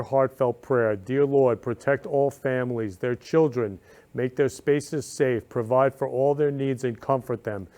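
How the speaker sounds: earnest, measured prayer read aloud; sincere prayer for Ukraine's families. Real, not acted. Rereads the same prayer.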